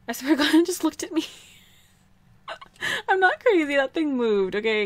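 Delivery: high, loud protest breaking into laughter; startled laughing insistence. Real, not acted. Player swearing the gnome looked at her, startled laughing insistence.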